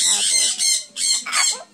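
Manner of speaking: high squeaky parrot word; squeaky bird voice. Real, not acted. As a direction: squeak it like a cockatiel would.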